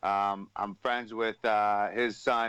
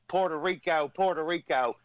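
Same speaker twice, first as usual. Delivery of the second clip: Honky Tonk Man impression; 3 semitones higher than usual. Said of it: "exactly how I say it".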